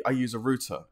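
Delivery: "router" said like "rooter"; British pronunciation. Shown as a demonstration. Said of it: "I say router, you say router".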